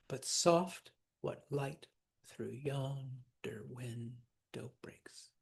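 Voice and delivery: "But soft, what light" in weak-strong pairs, slowing and quietening to "breaks"; iambic heartbeat rhythm. Shown as a demonstration. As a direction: beat out "through yonder window breaks" as slow iambs. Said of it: "iambic pentameter".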